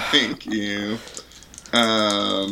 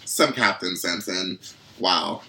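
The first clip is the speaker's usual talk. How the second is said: bitter sarcasm; 3 semitones lower, slower than usual. Acted.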